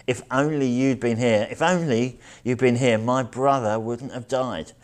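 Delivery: retold grief spilling out as blame; pained blame. Martha launches at Jesus over her brother's death, pained and blaming. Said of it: "Up bubbles her pain and blame".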